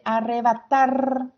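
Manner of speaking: "arrebatar" with a strong, held TAR; stress on final syllable. Shown as a demonstration. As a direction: lean into the last syllable of "arrebatar". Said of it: "Ar es la que suena más fuerte".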